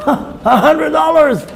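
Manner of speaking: slow, high squeal of delight; amazed passer-by. Acted. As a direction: savour the lucky find, drawn out and high. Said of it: "And a person comes and".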